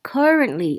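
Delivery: "currently" said clearly for learners; pronunciation model. Shown as a demonstration. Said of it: "ออกเสียงนะคะ".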